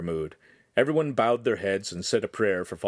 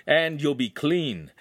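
laughing; 5 semitones higher, slower than usual. Acted. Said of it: "the master laughed".

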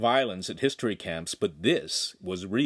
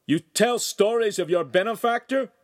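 high, loud accusing shout; angry yell; 12 semitones higher, 5 dB louder than usual. A narrator's reading. Master yelling at the servant boy. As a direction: roar it at the boy. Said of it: "the master screamed".

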